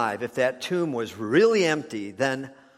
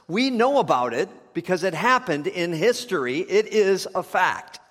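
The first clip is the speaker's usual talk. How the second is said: raised, higher preaching voice; emphatic preaching; 5 semitones higher, 4 dB louder than usual. Real, not acted. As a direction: drive the point home to the congregation.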